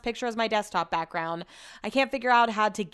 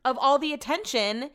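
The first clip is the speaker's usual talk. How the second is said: higher, jealous whine; 5 semitones higher than usual. Real, not acted. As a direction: let the jealousy show. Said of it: "can you hear it in my voice".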